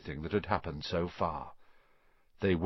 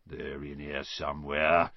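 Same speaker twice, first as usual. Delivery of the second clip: gruff caretaker voice; 8 semitones lower, 4 dB quieter than usual. A narrator's reading. Filch voiced by narrator.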